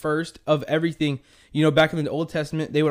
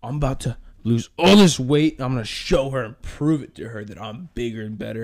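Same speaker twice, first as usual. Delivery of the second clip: friend's voice; 3 semitones lower than usual. Retold or imitated. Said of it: "you're like".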